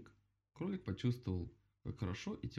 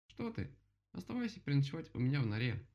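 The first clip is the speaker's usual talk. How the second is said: quick, high, louder offer; eager invitation; 6 semitones higher, 3 dB louder than usual. Acted. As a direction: hurry to reassure your friend. Rabbit urging friend to stay.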